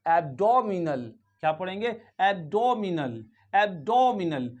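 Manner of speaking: एब्डोमिनल said slowly with a short "o" as in hot; slow demo. Shown as a demonstration. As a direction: stretch एब्डोमिनल, "ab-DOM-i-nal". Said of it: "तो पढ़ा जाएगा". (एब्डोमिनल को धीरे, short ओ के साथ)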